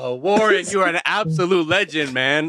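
high hyped-up praise; excited praise. Real, not acted. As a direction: hype him up. Praising guest in hype.

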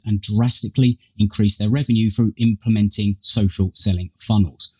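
tinny earbud mic sound; thin, tinny recording through earpods. Real, not acted. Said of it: "I guess, a tinny tone".

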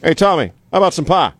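lightly voiced grizzled old cowboy offering pie; Tommy Lee Jones impression. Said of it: "Tommy Lee Jones imitation".

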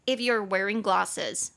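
slow, measured sentence reading; English read-aloud. A narrator's reading. Host reading the article's English sentences to learners, slow read-aloud.

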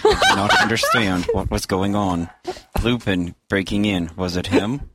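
monotone robotic computer voice. Pretend. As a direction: read it like a talking computer. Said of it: "do this whole segment in the computer voice".

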